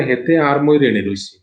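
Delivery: plain voice, Noakhali regional speech; Noakhali dialect. Shown as a demonstration. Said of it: "নোয়াখালীতে এটাকে বলে".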